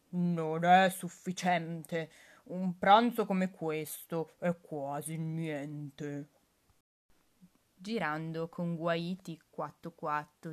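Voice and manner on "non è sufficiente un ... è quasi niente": slow, louder, letdown wolf voice; disappointed wolf. Acted. Wolf grumbling after eating grandma, slow and disappointed. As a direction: drag it out like a hungry beast left unsatisfied. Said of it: "disse deluso".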